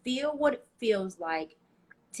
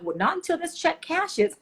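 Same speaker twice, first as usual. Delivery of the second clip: mock skeptical; 8 semitones higher than usual. Joking self-doubt quote.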